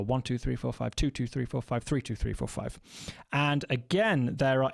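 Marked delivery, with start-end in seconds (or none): 0.0-2.8 counting the beat. Shown as a demonstration. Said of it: "felt as three quintuplets to the bar".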